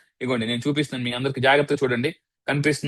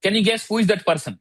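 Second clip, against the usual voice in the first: slow quiz question; 4 semitones higher, much slower than usual. Shown as a demonstration. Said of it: "quiz to audience".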